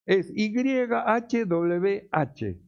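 "Y H W H" spelled very slowly, letter by letter; slow spelled emphasis. Shown as a demonstration. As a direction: lay out "Y H W H" deliberately, each letter separate. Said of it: "el nombre de Dios". (deletreando lento "Y H W H")

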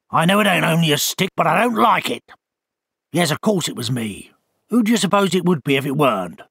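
lightly voiced testy owl; a put-out bird grumbling at a stranger; grumpy owl. Owl figure speaks.

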